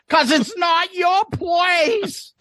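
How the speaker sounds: slow, high, shouted mockery; mocking slow shout. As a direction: bellow the line back to mock it. Mock repeat of co-host line.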